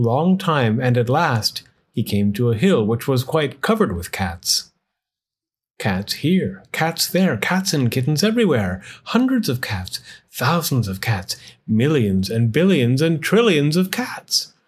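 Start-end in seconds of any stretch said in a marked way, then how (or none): 5.8-14.5 rhythmic read-aloud refrain; story narration. A narrator's reading. Narrator counts the cats for children, rhythmic refrain.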